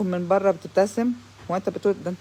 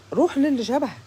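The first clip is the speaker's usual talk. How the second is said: dismissive; 6 semitones higher than usual. Real, not acted. Dismissing the man.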